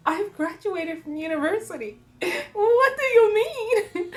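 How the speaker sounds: high, loud exasperated wail; mock tantrum. Retelling her protest to her mom, loud high tantrum. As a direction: protest like a thwarted teen, wailing by the end. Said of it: "I want to throw a tantrum".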